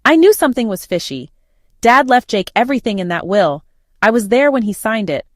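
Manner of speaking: indignant aunt, voice lifted; furious. A narrator's reading. Aunt confirms her suspicions about the will, mildly furious. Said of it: "went from shocked to furious".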